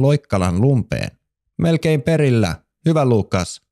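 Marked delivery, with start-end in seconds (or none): 1.6-3.6 high eager call mid-hop; excited cheer. Acted. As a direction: cheer on the friend, lifted up high. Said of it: "huudahti Elli".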